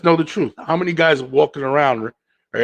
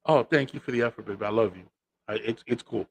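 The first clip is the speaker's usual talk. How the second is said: gently swallowing the hurt, softer; soft forced gratitude; 6 dB quieter than usual. Retold or imitated. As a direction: sweet-talk her while letting it go.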